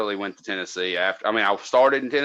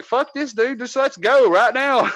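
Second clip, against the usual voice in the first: much higher, urgent bail-out voice; urgent get-out; 13 semitones higher than usual. Retold or imitated. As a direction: push to leave right now. Wants out of drug house.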